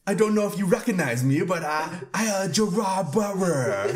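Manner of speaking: high, badly botched Scottish accent; Gerard Butler. Introducing himself as the actor, botched Scottish accent. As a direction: overdo the failed Scottish accent, giggling. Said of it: "doing my best Scottish accent".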